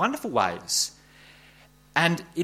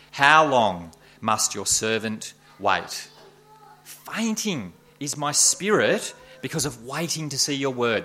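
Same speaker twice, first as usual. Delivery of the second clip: scripture reading; 3 dB louder than usual. Acted. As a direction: read the lament with gravity. Preacher reads the psalm aloud.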